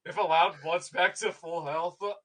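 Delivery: low, menacing, controlled rage; a vengeful warrior's threat; seething character voice. Acted.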